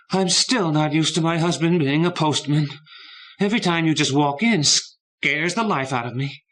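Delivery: high, loud flustered complaint; flustered wife. A narrator's reading. Wife startled by postman husband, high flustered scolding. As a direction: fuss at him, high and loud.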